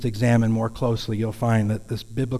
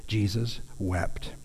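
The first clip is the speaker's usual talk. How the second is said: solemn hush; 4 semitones lower, 9 dB quieter, slower than usual. Acted. Preacher dwells on Jesus weeping.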